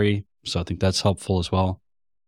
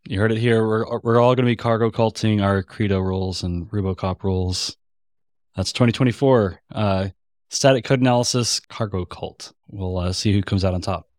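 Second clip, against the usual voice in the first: sarcastic. Real, not acted. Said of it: "I hope everyone can hear your sarcasm".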